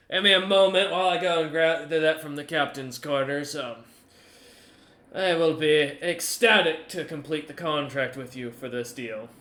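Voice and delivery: a touch of delight at closing a deal; lightly voiced Goose, eager buyer.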